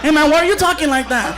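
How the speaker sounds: baffled guest. Acted.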